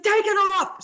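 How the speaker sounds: high, forceful mock command; barked order. Designer at the door orders host to undress, high and forceful. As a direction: demand it sharply in the designer's voice.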